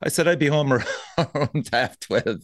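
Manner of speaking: laughing through the words. Real, not acted. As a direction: chuckle while you say it. Laughing while telling story.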